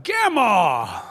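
grandpa imitating a little boy hollering from the door, mildly; child's holler. Grandson spots grandpa arriving and hollers from the door, mild mock holler. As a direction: call out like a toddler at the door. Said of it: "he hollered out".

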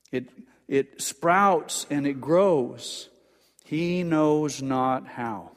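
slow, even reading of the verse; a slow plain reading of the verse before the Greek order. Shown as a demonstration. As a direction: lay the verse out slowly. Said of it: "the emphasis is on the first word".

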